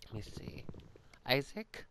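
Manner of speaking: whispered call, rising; whispering. Real, not acted. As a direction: whisper his name so no one hears. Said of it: "I kinda need to be quiet".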